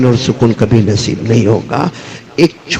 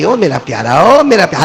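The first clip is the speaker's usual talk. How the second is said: a hint of a mother cooing from afar; mother calling; 2 semitones higher than usual. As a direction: lightly imitate a mother calling her darling, rising on the repeat. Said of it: "ماں دور سے ایک آواز دی". (ماں کی پیار بھری پکار کی ہلکی نقل)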